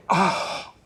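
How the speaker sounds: a pained, breathy "oh"; pained groan. Acted. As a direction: groan in sudden pain. Pain attack during meeting.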